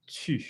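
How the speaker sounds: tu with lips forward, tight French u; pouted French vowel on tu; sharp French tu. Shown as a demonstration. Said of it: "get that sharp sound".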